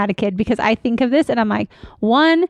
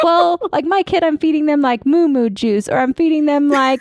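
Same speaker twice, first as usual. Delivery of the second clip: mocking other moms; 4 semitones higher than usual. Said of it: "they're like".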